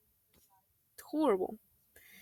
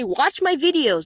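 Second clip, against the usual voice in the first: plug; 4 semitones higher, 4 dB louder, slower than usual. Real, not acted. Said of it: "use those last eight seconds to say".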